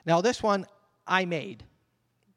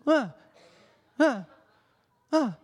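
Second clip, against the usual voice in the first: put-on toddler's ah; 5 semitones higher, 3 dB louder than usual. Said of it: "He just goes".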